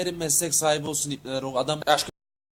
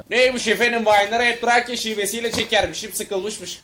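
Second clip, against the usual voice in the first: raised, mocking retort; indignant mocking; 3 semitones higher than usual. Comedian repeating complaints about his accent, indignant mocking.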